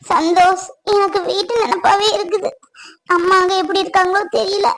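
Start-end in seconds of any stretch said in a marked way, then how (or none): 0.9-2.5 laughing wistfully. Acted. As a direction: laugh it off while missing home. Homesick wife talks to husband.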